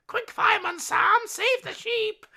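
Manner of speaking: high, loud mock-frantic shout; panicked crowd cry. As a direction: call out in hammed-up panic. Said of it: "everyone's just going mad".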